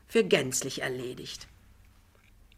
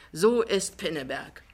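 lightly triumphant, rising higher and louder; 6 semitones higher, 5 dB louder than usual. A narrator's reading. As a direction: crow that you are proved right. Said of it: "sagt der Riese triumphierend". (triumphierend, mit steigender Stimme)

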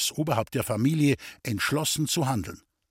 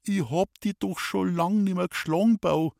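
higher, pleading despair; 6 semitones higher than usual. Acted. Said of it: "Verzweifelt schüttelte sie immer wieder den Kopf".

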